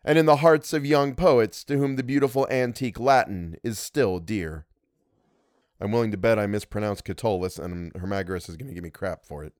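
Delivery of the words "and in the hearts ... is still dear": measured, literary reading voice; story narration. A narrator's reading. Narrator reading an old tale to listeners, story narration. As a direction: read it out like an audiobook.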